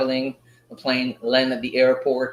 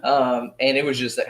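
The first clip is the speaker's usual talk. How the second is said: ordinary talk, nothing marked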